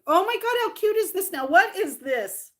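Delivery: high burst of gushing surprise; excited discovery. Real, not acted. Streamer turning from sad memory to cute find, suddenly excited. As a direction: gush high, then stretch the question out. Breaks off sadness, finds cute item.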